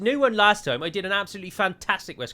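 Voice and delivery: hammed-up West Country English accent; broad mock West Country accent. Shown as a demonstration. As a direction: talk like a proud West Country local. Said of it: "West Country accent like this".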